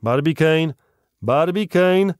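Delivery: loud, high hail to a friend; calling out. A narrator's reading. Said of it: "Ardan zawołał".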